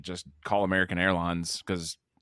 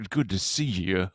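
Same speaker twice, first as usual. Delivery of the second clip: put-on Southern accent; 2 semitones lower than usual. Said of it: "I guess I already have a Southern accent".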